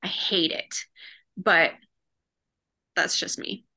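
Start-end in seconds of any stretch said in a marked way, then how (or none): 0.0-0.8 whispered under the breath; whispering. Real, not acted. Whispered repeat of her complaint.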